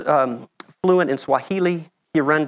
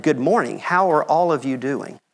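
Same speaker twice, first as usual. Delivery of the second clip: slow careful greeting. Shown as a demonstration. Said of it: "I meant".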